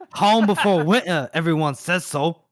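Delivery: hammed-up mock Geordie; Newcastle accent. Host copying his co-host's demo, hammed-up Newcastle accent. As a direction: badly imitate a Newcastle accent. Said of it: "That was horrible".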